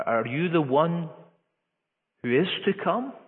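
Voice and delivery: a hint of a troubled prisoner pleading for answers; John doubting in prison. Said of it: "a question which has to do with doubt".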